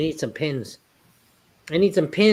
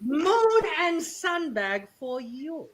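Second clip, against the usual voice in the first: put-on Asian accent; 8 semitones higher, slower than usual. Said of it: "Say that with the Asian accent".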